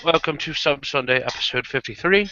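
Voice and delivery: put-on British-accented show host; measured British presenter voice. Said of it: "I love your British accent".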